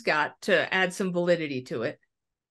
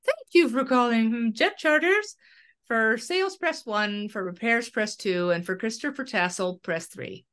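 automated phone voice; 3 semitones higher than usual. Retold or imitated. Caller imitating the airline's phone menu, mock automated voice. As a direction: read it like a polite phone menu. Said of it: "automated voice".

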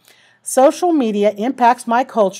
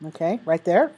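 hiccups; 3 semitones lower, 3 dB quieter than usual. Real, not acted. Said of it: "Sorry, I've got the hiccups".

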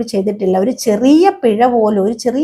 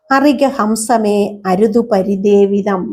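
slow, stretched verse line; teacher reciting Nala's words; slow verse recitation; slower than usual. Shown as a demonstration. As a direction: intone the verse for the class.

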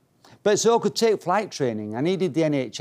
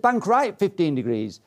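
falling, decisive mock instructor order; instructor's command; 3 semitones higher than usual. Instructor orders pupil to turn, retold command. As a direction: give it as an imitated flying instructor. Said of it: "He said".

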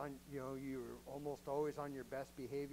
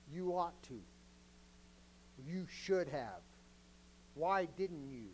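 condemning devil; slower than usual. Retold or imitated. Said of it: "condemning tone".

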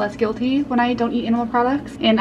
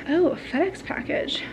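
surprised; 7 semitones higher, 4 dB quieter than usual. Real, not acted. Spots an unexpected package.

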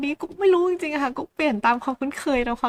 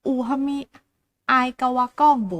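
phrase by phrase; 3 dB louder than usual. Shown as a demonstration. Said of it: "มาลองพูดพร้อมๆกันดูนะคะ".

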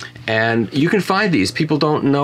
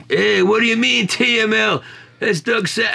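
much higher-pitched, incredulous outburst; mock astonishment; 11 semitones higher than usual. Acting out Chad hearing of the TML, high-pitched mock surprise. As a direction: imitate a startled collector, voice shooting up.

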